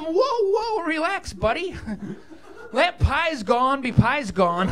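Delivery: mock-soothing, slow at the end; calming dad. Father calming his angry son, mock reassuring and slow. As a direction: settle him down gently. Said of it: "I had to tell him".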